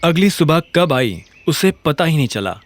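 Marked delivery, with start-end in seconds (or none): none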